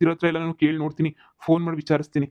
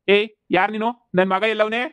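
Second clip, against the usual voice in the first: demanding repeat; 3 semitones higher, slower than usual. Acted. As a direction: drag out the "ಏ" and press the caller. Father repeats the question more forcefully. (ನಿಧಾನವಾಗಿ, ಜೋರಾಗಿ ಗದರಿಸಿ ಕೇಳು)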